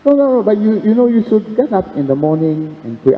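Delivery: high, insistent correction; voice of God. Retold or imitated. God insisting Michael rise to pray, high insistent.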